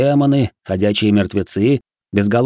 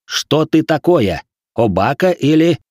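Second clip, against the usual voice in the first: barked order; 5 semitones higher, 3 dB louder, slower than usual. Acted. Samurai keeps barking.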